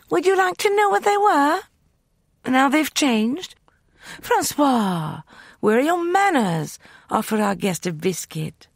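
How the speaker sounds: high, loud mock hospitality; taunting Justin. A narrator's reading. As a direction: play with the prisoner.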